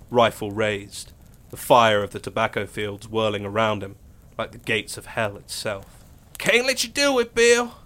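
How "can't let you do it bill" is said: a hint of reluctant resolve; lightly voiced firm deputy. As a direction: refuse him, steady and sorry. Benny holds his rifle on Bill.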